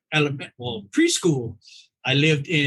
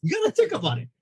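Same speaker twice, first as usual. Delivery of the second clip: mock threat to patient; 5 semitones higher than usual. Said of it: "I was like".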